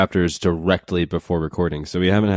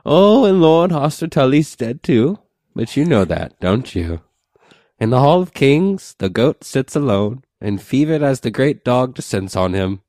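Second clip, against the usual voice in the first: put-on old crone voice; 7 semitones higher, 5 dB louder than usual. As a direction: croak it like a wine-soaked crone. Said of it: "she goes on to say".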